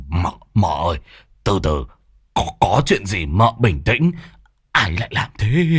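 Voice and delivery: a hint of a timid old man, hushed and careful; nervous soothing. Old man nervously calming the angry woman, hushed. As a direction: coax her gently, scared. Môn Phọt calms her.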